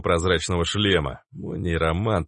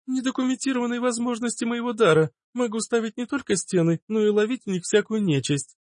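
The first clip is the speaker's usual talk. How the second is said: much higher, light and carefree; high girlish voice. A narrator's reading. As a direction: shrug it off like a young girl. Plaksa voiced high, boasting. (Плакса, высоким девичьим голосом)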